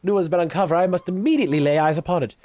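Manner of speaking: treasure hunter voice. Acted. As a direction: play a greedy treasure hunter. Reads a treasure-hunter character's lines.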